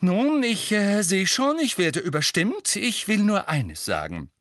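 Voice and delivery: high, loud, agitated protest; agitated mother. A narrator's reading. Mrs Weasley, outvoted, argues to protect Harry, agitated.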